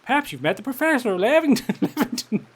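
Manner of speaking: high, wobbly attempt at American; badly faked American accent, breaking into a laugh. Villager asks stranger about the professor, in failing American accent. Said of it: "This is my attempt at an American accent".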